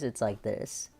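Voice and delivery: blocked-nose demo, fingers over nostrils; nostrils covered. Shown as a demonstration. Showing viewers covered nostrils, blocked-nose voice. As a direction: speak with fingers shutting the nostrils. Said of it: "just covering my nostrils all together with my fingers".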